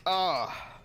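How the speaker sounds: high, falling "ah" of shared pain; sympathetic groan. Real, not acted. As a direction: groan along with a friend's bad luck. Groans in sympathy at bad roll.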